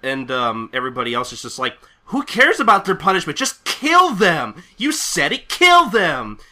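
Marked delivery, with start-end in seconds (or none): 2.1-6.4 high, loud mob outcry; bloodthirsty mob. Acted. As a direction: shout it like a crowd baying for blood. Crowd baying for blood.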